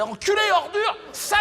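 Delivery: hammed-up screamed slurs; mock insult shout. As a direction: hurl the insults like the angry press. Mimics press insulting him.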